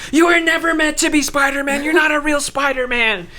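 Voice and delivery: high put-on sneering villain voice; hammed-up villain taunting the hero; mock villain taunt. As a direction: sneer it like a cartoon bad guy. Villain taunting Miles, retold.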